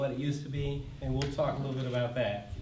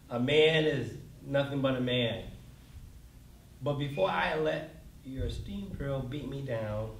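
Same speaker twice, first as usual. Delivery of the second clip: poem reading. Acted. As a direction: read it like a folk ballad, steady and deliberate. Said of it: "read the following stanza".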